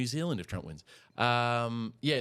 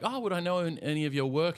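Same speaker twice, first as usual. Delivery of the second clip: asked in a higher, lilting pitch; curious stranger; 5 semitones higher than usual. Retold or imitated. Stranger asking a cartoonist about their work, curious and higher. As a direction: mimic a curious acquaintance, pitched up.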